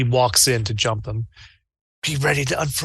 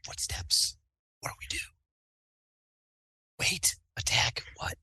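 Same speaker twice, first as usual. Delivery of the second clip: whispering; 5 semitones higher, 11 dB quieter than usual. Pretend. Whispering in front of the door.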